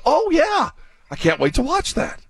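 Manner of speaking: high, eager fan gushing about the Olympics; mock excitement. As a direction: squeal it like a thrilled fan. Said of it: "did you go".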